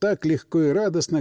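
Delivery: plain reading voice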